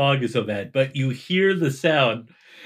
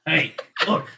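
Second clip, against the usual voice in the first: indignant character; 4 semitones higher than usual. Acted. Game master voices Branson's threat.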